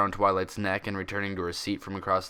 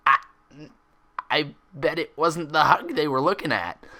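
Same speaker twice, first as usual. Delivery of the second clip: snorting laugh; 7 semitones higher, 5 dB louder than usual. A narrator's reading. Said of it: "she snorted".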